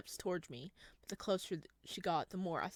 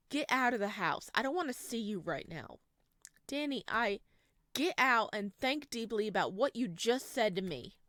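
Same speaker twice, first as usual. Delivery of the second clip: angry order; 3 semitones higher, 6 dB louder than usual. Acted. Danny ordering him out.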